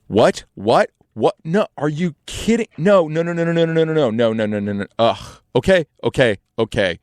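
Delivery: panicked disbelief on the phone, then giving in; frantic phone call. Retold or imitated. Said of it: "he's going like".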